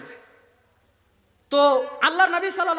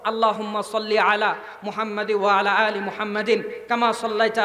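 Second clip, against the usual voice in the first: lower, measured recitation of a prayer formula; Arabic recitation; 4 semitones lower than usual. Shown as a demonstration. Preacher reciting durood to the crowd, devout chant.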